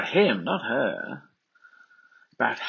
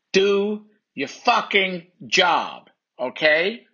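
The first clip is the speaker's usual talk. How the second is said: angry; 7 semitones higher, 3 dB louder, much slower than usual. Acted. Angry quarrel between women.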